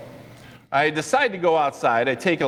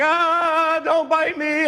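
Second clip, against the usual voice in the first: high frantic yelp of a plea; imitated panic; much slower than usual. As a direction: cry out as if a dog chases you. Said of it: "and he's like".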